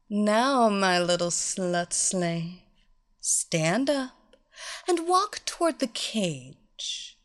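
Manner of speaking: slow, drawn-out orders; commanding mistress. Acted. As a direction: command her slowly and sweetly. Mistress commanding her slave.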